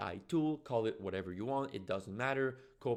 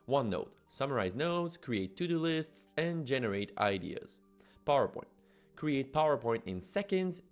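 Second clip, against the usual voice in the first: upbeat, louder promo voiceover; ad read; 4 dB louder than usual. Acted. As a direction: read it like a punchy product ad. Scripted promo read over music.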